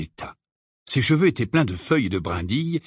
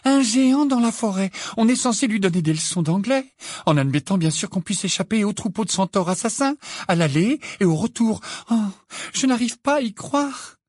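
put-on higher-pitched, incredulous young witch; exasperated character voice, pitched up; exasperated Hermione; 9 semitones higher than usual. Hermione venting about the giant in the forest, exasperated.

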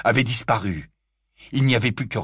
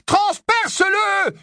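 even higher, slower "Transperce-le" screamed; louder repeat shout; slower than usual. Acted. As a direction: beg him, more desperate now. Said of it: "hurla Harry".

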